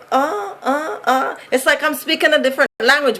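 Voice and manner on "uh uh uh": soft, puzzled mock "uh"; imitating baffled listeners. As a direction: act out listeners lost for words. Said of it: "people be like".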